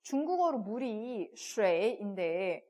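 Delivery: slow puzzled question; puzzled friend. Retold or imitated. Friend asks the teacher about the spelling, slow and baffled. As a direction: drawl out the friend's confusion. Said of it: "라고 물어보는 거예요".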